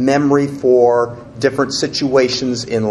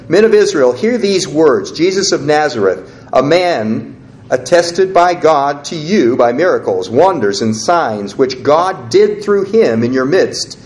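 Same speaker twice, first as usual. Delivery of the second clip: scripture reading; 3 semitones higher than usual. Acted. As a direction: call it out like Peter to the crowd. Reads Peter's Pentecost speech.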